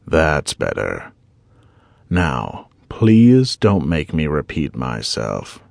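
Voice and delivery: low, slow, taunting intruder, only a touch darker; a hint of a cold tormentor scolding; lightly voiced menacing stranger. A narrator's reading. Stranger settles in, satisfied.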